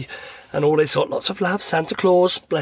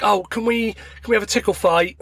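higher-pitched kid's request, lightly voiced; imitated son; 5 semitones higher than usual. Son asks dad for a tickle fight, lightly imitated pleading. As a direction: lightly mimic a child asking to play. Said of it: "then it was like".

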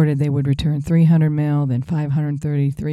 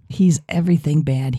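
whispered aside. Real, not acted. Host whispering a jab about Trump. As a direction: hush it like a secret.

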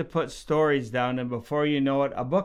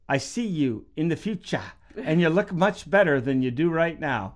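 put-on South African accent. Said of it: "so I'm gonna say it in a South African accent".

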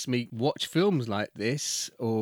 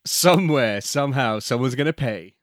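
loud, dramatic trailer announcer; 5 dB louder than usual. Acted. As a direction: punch it like a blockbuster teaser. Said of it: "And another one".

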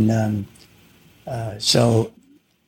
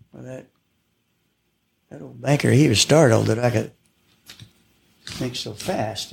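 cowboy poetry. Shown as a demonstration. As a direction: recite it like a campfire poem. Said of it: "I would recite a cowboy poem".

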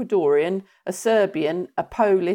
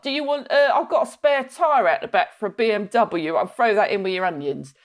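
high Cockney wheeler-dealer; high, hammed-up Cockney wheeler-dealer; Only Fools and Horses Cockney; 4 semitones higher than usual. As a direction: flog dodgy goods like Del Boy. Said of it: "school of only fools and horses".

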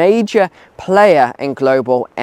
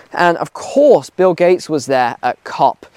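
usual speaking voice

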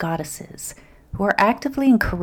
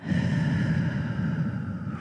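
relaxing sigh; 6 dB quieter than usual. Shown as a demonstration. Models a relaxing breath.

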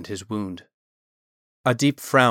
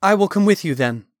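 high, louder plea; urgent, imploring, pitched up; begging; 9 semitones higher, 6 dB louder than usual. A narrator's reading. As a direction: beg to be taken along. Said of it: "Talon begged".

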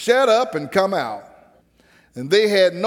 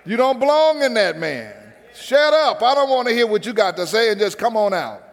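Jesus commanding demons; 2 semitones higher than usual. Retold or imitated. Preacher voicing Jesus ordering the demons out, stern and rising. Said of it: "He says".

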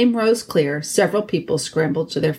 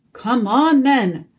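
snarled challenge, only mildly raised; a touch of a snarl, higher; 6 semitones higher, much slower than usual. A narrator's reading. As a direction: growl out a dare. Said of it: "snarled Truffle Hunter".

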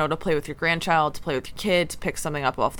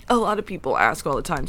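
hiccuping. Real, not acted. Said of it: "Sorry, I'm hiccuping".

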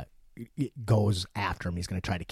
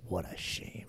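soft menacing villain impression; Thulsa Doom whisper; 7 dB quieter than usual. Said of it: "he says".

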